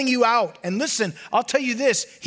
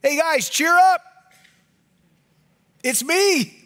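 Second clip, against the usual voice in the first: casual, chummy; 5 semitones higher, 4 dB louder, slower than usual. Acted. Paraphrasing Jesus casually.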